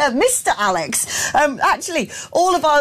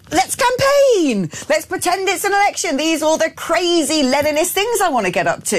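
mocking Burnham; 3 semitones higher than usual. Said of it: "You don't get to now go".

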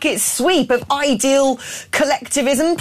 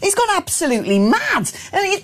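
ordinary talk

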